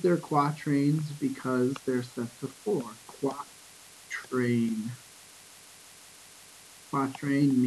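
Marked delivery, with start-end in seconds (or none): 3.1-4.9 syllable by syllable. Shown as a demonstration. Teacher breaks down a new term.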